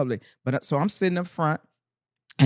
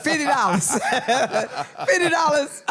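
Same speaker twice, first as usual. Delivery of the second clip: laughing exclaim; 8 semitones higher than usual. Real, not acted. Recalling the wild Milwaukee crowd, a high laughing shout. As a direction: crack up while shouting the price.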